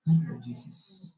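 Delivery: slow heartfelt plea; from the heart. Shown as a demonstration. Pastor showing a heartfelt prayer, slow and sincere. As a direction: pray it slowly from the heart. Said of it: "Yung galing sa puso".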